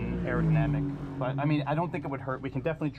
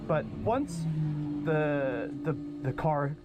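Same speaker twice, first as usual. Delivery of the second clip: over the radio. Real, not acted. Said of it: "you can listen in on the radio".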